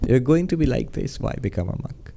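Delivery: dropping low and soft at the end; hushed, grave reproach; quiet stern rebuke. Retold or imitated. Teacher quietly rebuking a new monk, hushed. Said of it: "the tone of his voice".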